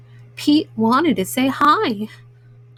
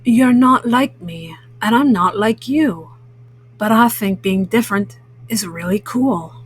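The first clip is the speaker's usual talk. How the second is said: lightly voiced accepting cat; a hint of a cool, friendly cat; Pete the Cat; 3 semitones lower than usual. Cat accepting his different new friend, lightly voiced and friendly.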